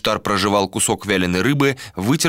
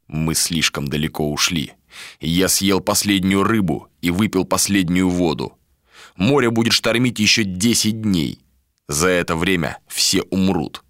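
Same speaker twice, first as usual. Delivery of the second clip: grim warrior. Acted. Ishtar, grim and low.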